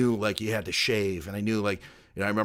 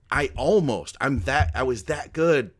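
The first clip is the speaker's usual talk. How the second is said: a bit higher and louder, emphatic; retold excitement; 3 semitones higher, 4 dB louder than usual. Telling cohosts of nearly winning, mildly excited. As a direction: relive the excitement, stressing key words. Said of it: "I was excited".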